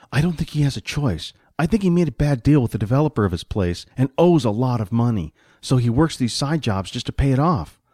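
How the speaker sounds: lightly voiced sidekick explaining himself; money-minded sidekick. Voices Jack in the story.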